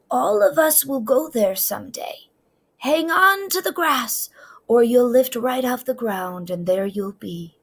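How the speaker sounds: high, whispered wonder; hushed grandma. A narrator's reading. Grandma telling Trisha about heaven, hushed whisper. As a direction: whisper it like a secret.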